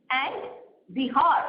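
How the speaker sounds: usual speaking voice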